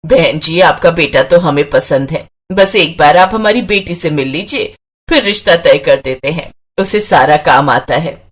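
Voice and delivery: a lightly voiced mother pitching her daughter; mother assuring the groom's family; mother's voice. Mother voiced talking to in-laws.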